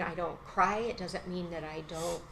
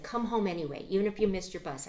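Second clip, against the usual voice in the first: raised, pressing plea to come home; urgent plea; 4 semitones higher, 5 dB louder than usual. Retold or imitated. Mother pleading with her son on the phone, urgently. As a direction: urge him, higher and louder.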